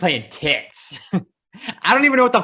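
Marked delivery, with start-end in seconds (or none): 0.0-1.0 teasing imitation with Tits punched; hammed-up forceful mimicry; mock violent. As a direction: exaggerate Tits as if spitting it out. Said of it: "You just said tits so violently".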